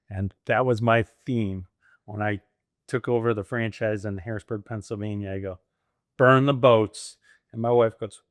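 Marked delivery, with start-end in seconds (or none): 6.2-7.2 loud, drawn-out battle cry; rallying cry. Retold or imitated. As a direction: declare it slowly and forcefully, like an order. His own battle cry to wife.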